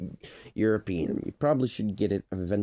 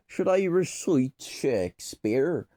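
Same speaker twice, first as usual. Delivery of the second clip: higher, hammed-up stage delivery; raised, declaiming question; theatrical Shakespearean; 6 semitones higher than usual. Shown as a demonstration. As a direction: ask it like a Shakespearean player. Repeats question in theatrical accent.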